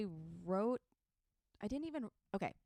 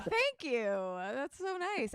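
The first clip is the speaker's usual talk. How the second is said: much higher, sweet gushing thank-you; 6 semitones higher than usual. Retold or imitated. Comic retelling a compliment, high gushing thanks. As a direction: play the flattered newcomer, pitched way up.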